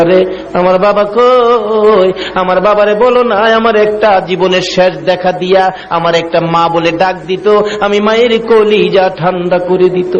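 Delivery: lightly acted crying in a sung chant; acted tearful lament. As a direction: chant a mother's longing, stretching the first call. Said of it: "ব্যথায় অস্থির হইয়া কান্দে". (সুরে সুরে কান্নার হালকা অভিনয়)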